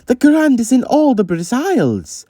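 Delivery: high, swelling haughty proclamation; puffed-up self-important announcement; grandiose boast. Retold or imitated. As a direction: proclaim it with lofty pomp. Mocking the truck's self-image.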